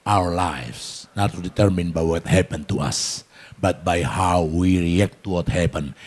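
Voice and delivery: slow, deliberate English quote; slow read-aloud. Shown as a demonstration. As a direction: read it out slowly so all can follow. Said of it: "Baca keras, dua tiga".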